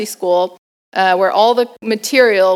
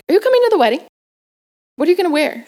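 lightly voiced mom, higher pitch; higher-pitched, chatty questions in a mom's voice; mother's casual questioning; 9 semitones higher, much faster than usual. Mom greeting her nervous daughter after the flight, casual questioning. Retold mother's small talk.

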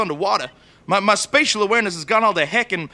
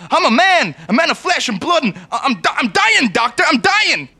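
mock-hysterical wail, higher and louder; hysterical panic; 5 semitones higher, 4 dB louder than usual. Patient insists to the doctor he is dying, hammed-up hysterical panic. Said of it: "You're being hysterical".

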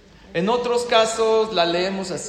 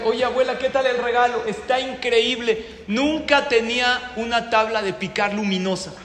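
delighted mock gushing; 5 semitones higher than usual. Acted grandchildren and delighted grandmother's reply.

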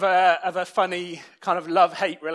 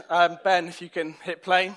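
usual speaking voice

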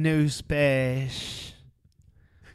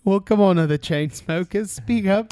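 put-on British accent; 5 semitones higher than usual. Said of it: "I thought they were British".

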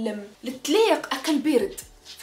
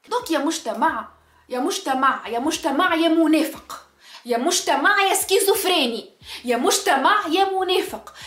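scolding call-out. Real, not acted. Calling out to society.

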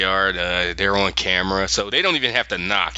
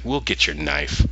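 unflinching; 6 semitones lower than usual. Retold or imitated. Will facing the collector's deal, unflinching. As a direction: agree without flinching, keeping it low and even. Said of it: "he didn't flinch".

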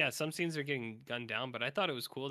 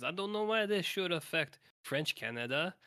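imitating Johnny with a raised pitch; the hero's doubtful question, played higher; quoting Johnny, high French-Canadian voice; 6 semitones higher, 3 dB louder than usual. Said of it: "he says".

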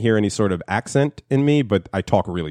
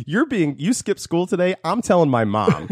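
high mock mom voice; imitating mom; 9 semitones higher than usual. Son mimicking mom threatening to tell grandma, high voice. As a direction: tattle in a shrill-high pitch. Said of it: "My mom would be like".

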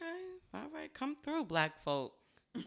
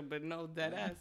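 normal talking voice

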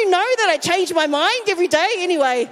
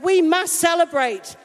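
insistent father; 3 semitones higher, 3 dB louder than usual. Retold or imitated. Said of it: "the dad ... is like".

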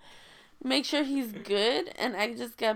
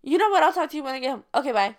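irritated; 3 semitones higher, 6 dB louder, much faster than usual. Retold or imitated. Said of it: "a little irritated".

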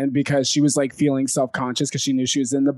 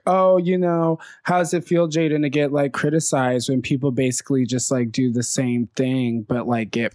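retold shady needling. Ginger stirring up shade on Jaden, mock-casual needling. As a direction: stir up shade with a pretend-casual question. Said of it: "stir up that shade by being like".

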